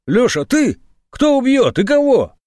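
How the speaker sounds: baffled and alarmed; startled. A narrator's reading. The major answers the panicked phone call, startled.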